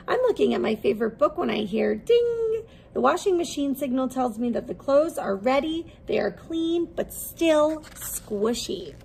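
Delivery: lively, expressive picture-book read-aloud; reading to children. Acted. Teacher reading a laundry picture book to her class, lively storytelling. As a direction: bring the story alive for little listeners.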